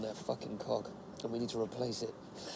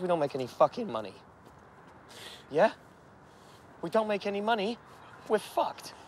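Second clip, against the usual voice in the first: rising, louder insistence; heated argument; 4 semitones higher, 5 dB louder than usual. Acted. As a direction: hammer home the money problem. Arguing about the stash and money.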